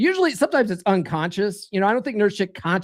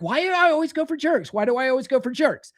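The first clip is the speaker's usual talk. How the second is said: mock confused girl; 6 semitones higher than usual. Mocking confused women.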